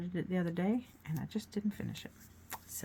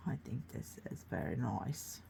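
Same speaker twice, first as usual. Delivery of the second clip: soft unvoiced whisper; 6 semitones lower, 8 dB quieter than usual. Real, not acted. Painting host whispers praise of her own picture. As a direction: breathe it out quietly. Hushed aside while painting.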